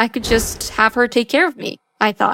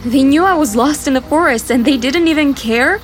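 hurt outrage; 4 semitones higher than usual. Acted. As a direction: demand answers, betrayed and hurt. Child learns parents stayed away.

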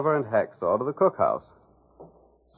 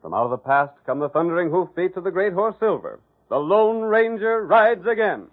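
booming radio announcer, slowing on the last line; grand old-time radio opening; announcer intro; 6 semitones higher than usual. Acted. Announcer opening the Lone Ranger show, booming.

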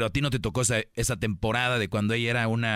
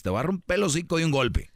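exasperated grandma scolding; 5 semitones higher than usual. Retold or imitated. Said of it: "¿Qué te decían antes?".

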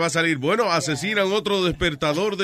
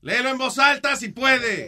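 higher-pitched, pressing request; raised, prodding instruction; insistent repeat; 6 semitones higher than usual. Real, not acted. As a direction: repeat it with mounting impatience.

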